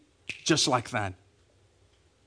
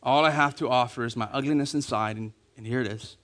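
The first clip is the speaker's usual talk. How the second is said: soft, low confession to God, fading away; soft broken prayer of confession; humble prayer; 4 semitones lower, 5 dB quieter, faster than usual. Retold or imitated. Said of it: "you go before God and you're like".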